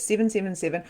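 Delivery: usual speaking voice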